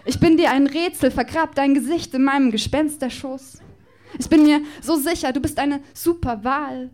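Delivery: performed slam poem, rhythmic and playful; poem recitation. Acted. Poet performing a love declaration to Justus Jonas on stage, rhythmic and playful.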